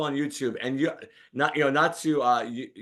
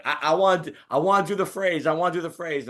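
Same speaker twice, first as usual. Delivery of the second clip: pushy host; 5 semitones higher than usual. Retold or imitated. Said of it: "Bill Pito started right away".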